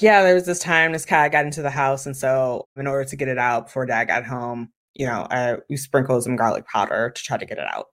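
deadpan, no excitement, just listing facts; flat retelling. Shown as a demonstration. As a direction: recite it like you don't care. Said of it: "You could say it like that".

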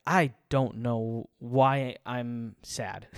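slow, dragged-out mopey voice; glum self-quote. Retold or imitated. Alone on the porch, quoting his own sadness, slow and glum. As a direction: let the words sag, slowly, like you're stuck. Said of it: "just being like".

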